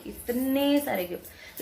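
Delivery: इतने stretched out long; slow, drawn-out stress on इतने; emphatic amazement. Real, not acted. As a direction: drag out इतने to show how many. Repeats to stress the amount.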